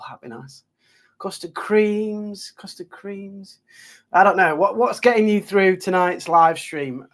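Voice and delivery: normal talking voice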